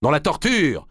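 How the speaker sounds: «Dans la torture!» repris en écho, un peu moins haut; écho sous les voûtes. A narrator's reading. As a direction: comme une voix lointaine au fond de la nef. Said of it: "relança la voix". (l'écho de la cathédrale répète, voix plus retenue)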